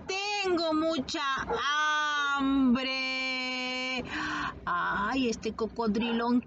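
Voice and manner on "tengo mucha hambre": hungry crocodile voice. Acted. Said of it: "¿qué dice?".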